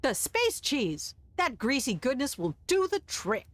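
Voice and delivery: grand proclamation. Acted. Chef proclaims his cheese.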